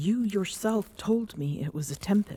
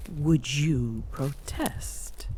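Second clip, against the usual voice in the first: slow, teasing purr of a question; slower than usual. Acted. Queen teasing her captive pet, slow and coaxing. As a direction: coax him, drawing it out.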